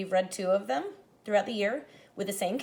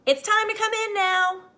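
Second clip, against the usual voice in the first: a higher, louder parent's call; calling from the house; 12 semitones higher, 7 dB louder than usual. Acted. A parent calls the boy inside for the night, loud call. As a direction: call the child home across the yard. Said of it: "someone called from my house".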